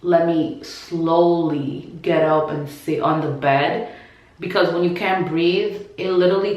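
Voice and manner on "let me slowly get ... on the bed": slow and careful. Shown as a demonstration. How she really had to get up, slow and careful. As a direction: drag each word like every move costs breath. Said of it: "No, it was kinda like".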